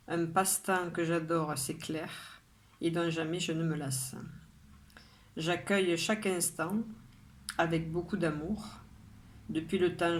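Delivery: measured poem reading, pausing after each line; poem recitation. Acted. Poet reads today's poem to her followers, measured recitation. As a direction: recite it line by line, drawing out the line endings.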